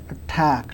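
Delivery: "attack" with a puff of air on the t; stressed second syllable of "attack", its t aspirated. Shown as a demonstration. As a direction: let air hiss out after the t in "attack". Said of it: "pronounced with a puff of air".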